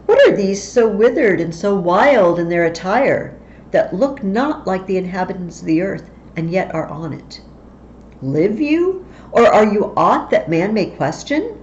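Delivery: a hint of unease at the strange women; lightly voiced Banquo.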